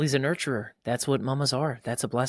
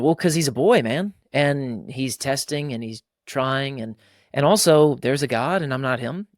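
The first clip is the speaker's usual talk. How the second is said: dad explaining; 2 semitones higher, 4 dB louder than usual. Retold or imitated. Dad answering why he lets son climb.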